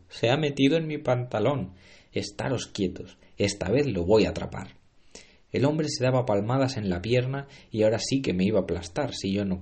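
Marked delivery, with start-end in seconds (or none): 0.1-4.8 furious chef. Acted. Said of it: "gritó el cocinero".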